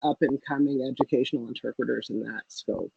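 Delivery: underwater. Real, not acted. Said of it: "You kinda sound like you're underwater".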